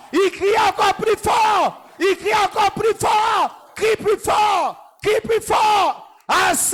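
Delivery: loud, high, slow shouting; fervent preaching. Acted.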